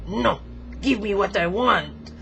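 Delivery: lightly voiced demanding figure; Frenchie. Frenchie demanding its way, uppity. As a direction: insist like a spoiled little tyrant. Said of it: "very demanding".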